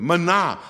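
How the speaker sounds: teacher stressing 玛拿 on the second syllable; Hebrew stress. Shown as a demonstration. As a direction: say 玛拿 and land on 拿. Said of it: "希伯来文重音多半在后面".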